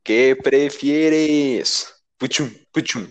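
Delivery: very slow, drawn-out title with spoken sound effect; show segment intro. Pretend. Host presents the podcast's question game, drawn-out announcer delivery. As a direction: stretch out the title, then add the jingle hits. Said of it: "sin hacer yo la presentación".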